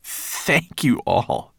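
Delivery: heartfelt thanks. Acted. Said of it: "he repeated".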